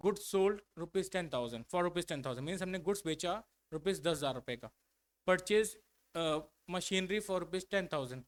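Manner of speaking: reads the definition very slowly, word by word; slow dictation. Shown as a demonstration. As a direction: dictate each word for the class to copy. Dictating examples.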